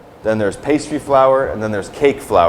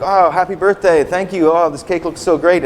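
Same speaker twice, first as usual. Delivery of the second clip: mock delight; 7 semitones higher, 3 dB louder than usual. Pretend thanks for birthday cake.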